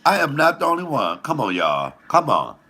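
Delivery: normal talking voice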